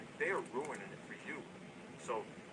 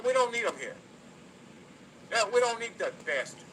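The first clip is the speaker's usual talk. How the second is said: loud, higher furious rant at the haters; angry Jersey tough guy; 3 semitones higher, 5 dB louder than usual. Acted. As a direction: bark it out like a Jersey guy who takes no shit. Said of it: "I was getting into a little bit of a character".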